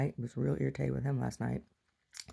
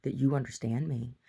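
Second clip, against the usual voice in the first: even, restrained reproach; calm talking-to. Retold or imitated. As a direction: explain it calmly, like a patient mother. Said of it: "I just talked to him real calmly".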